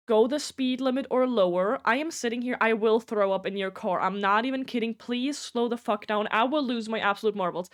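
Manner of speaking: mild mock yell at the driver; retold yelling. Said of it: "I'm yelling".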